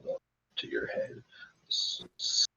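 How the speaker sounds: breathy, high-pitched ghostly whisper; eerie whisper. Acted. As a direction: whisper like a voice in the head. Creepy voice invading the mind.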